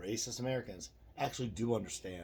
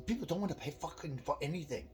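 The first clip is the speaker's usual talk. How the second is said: imitating the angry clerk; 8 semitones higher than usual. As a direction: play the fed-up gas station clerk grumbling. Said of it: "he said".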